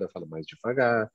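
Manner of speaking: slow down on "eu falo mais devagar". Shown as a demonstration. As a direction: ease off the speed. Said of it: "falar mais devagar".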